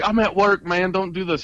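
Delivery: high-pitched, hurried mock plea; retold pleading. Tattooist fending off a husband at work, pleading. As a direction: act out begging someone to back off. Acts out begging off a confrontation.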